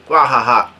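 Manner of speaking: spelt-out "wah ha ha" laugh; mock laugh. A narrator's reading. Daifuku laughing at his enemies, mock laugh. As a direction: read out a villain's laugh half-heartedly. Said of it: "starts laughing".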